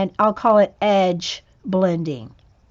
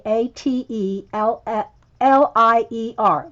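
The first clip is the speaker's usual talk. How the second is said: spelling it out. Shown as a demonstration.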